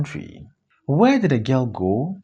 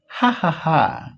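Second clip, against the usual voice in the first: a short, slow, mocking ha ha ha; bitter laugh; slower than usual. Man laughing at the mistaken letter, slow mock laugh. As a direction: laugh at the misunderstanding, half to himself. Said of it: "Then he starts laughing".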